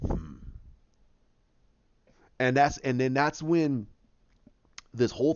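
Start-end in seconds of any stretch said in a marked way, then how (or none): 0.1-0.3 low grunt as a brooding Hulk. Retold or imitated. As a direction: grunt like a big beast looking back. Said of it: "Hulk just stand up ... and he goes".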